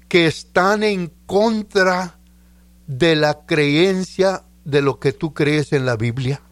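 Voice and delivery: measured reading, pausing between phrases; slow repeated reading. Real, not acted. Preacher repeating the written thought for the listener, slowly and deliberately. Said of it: "Te lo voy a leer despacito".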